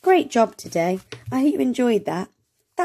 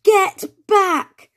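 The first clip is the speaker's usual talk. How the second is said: high, loud alarmed cry; expressive shout; 11 semitones higher, 5 dB louder than usual. Acted. Teacher reading the hen story aloud, loud alarmed shout. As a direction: shout it like a frightened warning. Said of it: "an expressional voice".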